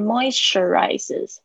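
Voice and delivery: "moisturizes" with strong stress on "moi"; teacher marking where the stress falls. Shown as a demonstration. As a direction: punch the first syllable of "moisturizes". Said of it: "这个重音是在这边".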